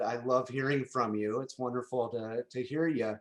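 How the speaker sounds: ordinary talk, nothing marked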